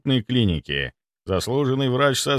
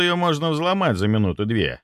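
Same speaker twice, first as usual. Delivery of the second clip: plain reading voice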